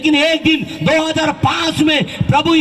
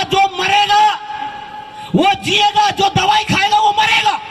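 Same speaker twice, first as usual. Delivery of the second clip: sadhu's warning; 8 semitones higher than usual. Retold or imitated. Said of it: "उसने कहा".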